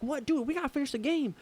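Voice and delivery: high-pitched disbelief; incredulous protest. Retold or imitated. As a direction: object to friends, voice jumping high. Protesting channel change at party.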